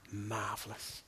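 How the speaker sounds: soft, low murmur; hushed, reverent imitation of the dying; weak last word. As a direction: repeat her faint last word quietly. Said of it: "We whispered in her ear".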